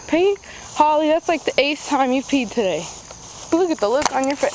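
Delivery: exasperated. Real, not acted. Exasperated at dog peeing again.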